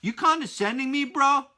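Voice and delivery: lightly voiced annoyed listener asking if he's being talked down to; mock indignant kid. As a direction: play the offended kid, half-joking. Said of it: "So if you're thinking".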